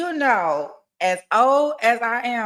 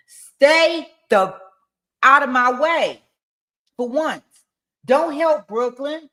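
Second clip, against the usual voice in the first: loud, forceful reading of a threat; loud menacing text reading; 3 semitones higher, 5 dB louder than usual. Acted. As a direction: bark out the text message like a warning. Creator reads threatening text aloud.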